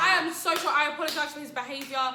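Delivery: high, loud, hammed-up apology; re-enacting a frantic apology; apologetic. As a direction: apologise profusely on his behalf. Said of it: "I had to go behind his back".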